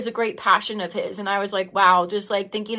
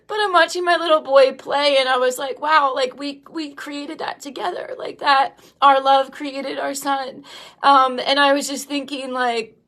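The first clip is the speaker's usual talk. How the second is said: tearful; 4 semitones higher than usual. Real, not acted. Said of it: "I'm crying right now".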